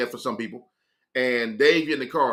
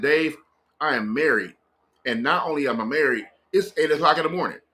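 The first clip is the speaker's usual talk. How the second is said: disbelieving. Retold or imitated. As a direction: spell it out to someone you can't believe. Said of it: "I'm talking to him like that 'cause I can't believe what he on".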